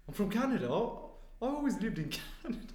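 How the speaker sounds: lightly voiced Canadian double, insisting; odd-sounding double. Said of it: "why do you sound like that".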